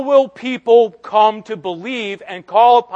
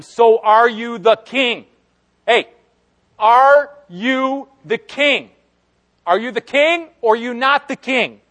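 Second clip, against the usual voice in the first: Pilate interrogating; 4 semitones higher, 4 dB louder than usual. Retold or imitated. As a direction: demand an answer.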